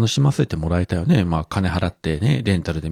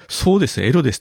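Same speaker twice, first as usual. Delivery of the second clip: high quoted line; quoting high; 7 semitones higher, 4 dB louder than usual. Retold or imitated. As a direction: echo the bold line up high. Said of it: "エロですとこう断言する".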